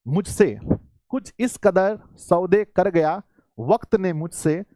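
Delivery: slow, measured verse with long pauses; shayari recital. Real, not acted. Teacher reciting his own shayari to students, slow poetic delivery. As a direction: recite the couplet phrase by phrase, drawing it out. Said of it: "sir सुना दो तो मैं सुना दूंगा".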